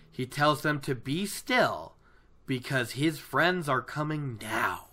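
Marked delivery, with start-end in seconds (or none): none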